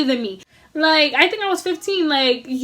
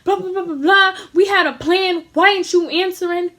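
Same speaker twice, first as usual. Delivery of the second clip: angry rant; 4 semitones higher than usual. Retold or imitated. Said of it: "he's bugging, he's blacking on my brother".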